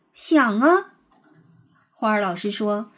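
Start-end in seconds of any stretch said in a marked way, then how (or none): 0.1-0.9 bright, eager little reply; a pleased boy answering his teacher quickly; happy answer. A narrator's reading. Boy answering the teacher, a touch of glad eagerness. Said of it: "雷天龙很高兴地回答".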